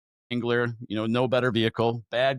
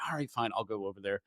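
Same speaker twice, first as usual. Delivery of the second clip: lower, soft giving in; resigned; 5 semitones lower, 9 dB quieter, faster than usual. Retold or imitated. Finally agreeing to God's nudge, soft and resigned. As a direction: sigh it out, conceding.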